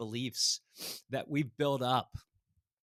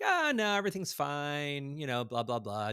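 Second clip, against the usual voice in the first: brushing it off. Retold or imitated. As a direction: wave the question away as the neighbor. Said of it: "just kinda blowing it off".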